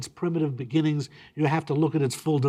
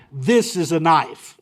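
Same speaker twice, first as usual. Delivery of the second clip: mock boast; 6 dB louder than usual. Mock tough-guy boast.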